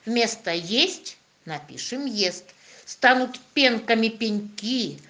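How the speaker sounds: put-on rhythmic children's poem; poem recitation. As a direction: recite the rhyme with bouncy rhythm. Recites poem about soft sign.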